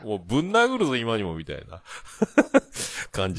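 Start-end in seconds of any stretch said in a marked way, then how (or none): 0.1-1.3 mock threat. Hakata man to a comrade, mock threat. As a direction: play-act being about to punch, not in earnest.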